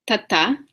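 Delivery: "tata" with the tongue against the teeth; dental T. Shown as a demonstration. Teacher showing what not to say, dental T. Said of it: "instead of saying".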